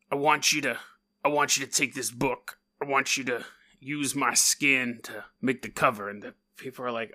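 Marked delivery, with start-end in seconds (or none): 0.1-6.1 put-on old-timey voice. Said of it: "That's why I'm doing an old-timey voice".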